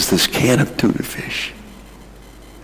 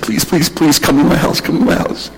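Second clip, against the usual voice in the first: pleading; 3 semitones higher than usual. Retold or imitated. Old man begging missionaries to visit.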